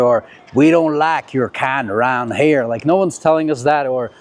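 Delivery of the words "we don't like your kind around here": put-on slow, drawled hostile-local accent. Imagined local warning off the film crew, put-on drawling accent. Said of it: "or which other accent I can do".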